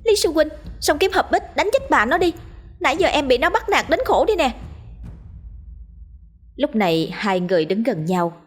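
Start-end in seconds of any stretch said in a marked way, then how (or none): 0.0-4.6 put-on high, eager young woman; rally him, gladly relieved. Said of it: "thấy người đó lao vào thì mừng rỡ".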